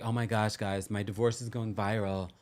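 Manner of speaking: a hint of Valley girl gushing about going viral; Valley girl impression. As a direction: lightly imitate a breathless Valley girl. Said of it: "Rachel does talk like a College Valley girl".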